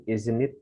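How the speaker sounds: "Isn't it?" with the s said as z, izn't, rising at the end; isn't with a z sound. Shown as a demonstration. Teacher showing that the s in "isn't" sounds like z. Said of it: "Seperti ke Z".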